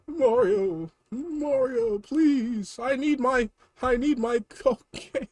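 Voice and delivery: high, pleading little-brother voice with laughs; whiny Luigi. Acted. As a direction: squeal for Mario's help. Luigi voice begging.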